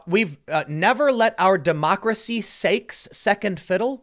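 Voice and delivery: slow, mock-bumbling repeat of the line; mocking mutter. Mocking the candidate's garbled line, slowed down. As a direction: drag it out like he can't find the words. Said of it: "He muttered incoherently".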